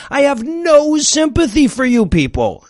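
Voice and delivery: usual speaking voice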